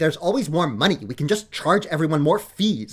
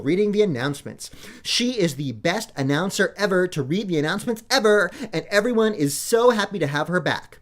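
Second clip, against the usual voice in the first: lightly put-on morning PA announcer read; chirpy school announcements, only lightly voiced. Shown as a demonstration. Daughter showing Daddy her PA announcement practice, light announcer voice. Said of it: "Listen, I've been practicing".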